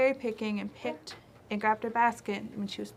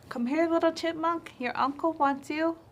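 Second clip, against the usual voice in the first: Owl Lady coaxing; 7 semitones higher than usual. Acted.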